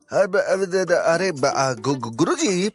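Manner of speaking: high, stammering Bihari sidekick; stammer, then plead in a high rustic voice; flustered stalling. Acted. Cornered sidekick reminding his guruji of old help, flustered. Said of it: "दिमाग ने काम करना बंद कर दिया".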